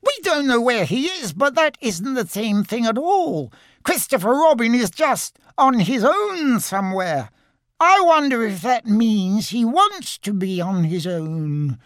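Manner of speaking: high, anxious little piglet voice; worried Piglet. Acted. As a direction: fret aloud like a tiny timid pig. Piglet worrying aloud.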